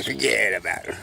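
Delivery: Brooklyn catchphrase. Acted. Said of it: "I'm gonna say".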